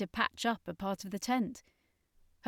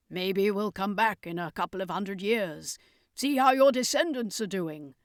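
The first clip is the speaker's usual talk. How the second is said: with a smile; 4 dB louder than usual. A narrator's reading. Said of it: "said with a smile".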